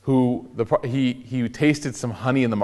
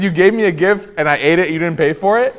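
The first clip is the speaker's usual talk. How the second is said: higher, louder mock incredulous question; playful, raised-pitch astonishment; retold amused disbelief; 5 semitones higher, 4 dB louder than usual. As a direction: imitate someone tickled at being tricked. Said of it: "starts laughing and he says".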